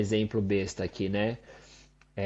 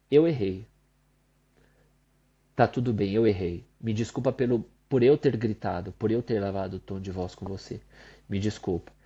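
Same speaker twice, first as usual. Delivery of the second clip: sincere apology; 4 semitones lower, faster than usual. Retold or imitated. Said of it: "Eu falei".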